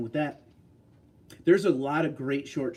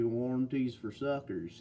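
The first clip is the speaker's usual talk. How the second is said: slow, softer Mississippi drawl; easygoing Mississippi imitation, drawn out and softer; Mississippi accent; 5 dB quieter, slower than usual. Shown as a demonstration. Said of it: "if we were doing Mississippi".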